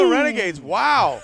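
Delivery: high, loud excited call; touchdown call. Real, not acted. Radio announcer calling a touchdown to listeners, excited shout. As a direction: belt out the score like a radio announcer.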